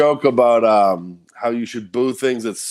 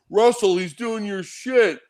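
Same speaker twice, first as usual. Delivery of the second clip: retold tattling; 8 semitones higher, slower than usual. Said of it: "someone was like".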